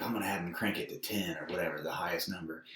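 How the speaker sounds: whispered, quick and soft; hushed retold quote. Friend retells the rider's boast, whispered and quick. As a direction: slip it out under the breath. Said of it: "he's like".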